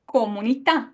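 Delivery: comunità with a dry k; Italian k, no air. Shown as a demonstration. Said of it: "what about community".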